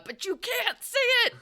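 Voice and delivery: high, loud excited squeal; teasing exclamation. Real, not acted. Game master taunts players about creature, teasing exclamation.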